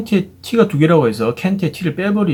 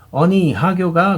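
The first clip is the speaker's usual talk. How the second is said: American accent in Korean; 5 semitones higher, slower than usual. Shown as a demonstration. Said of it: "미국 사람들이 한국어 발음을 하는 것처럼".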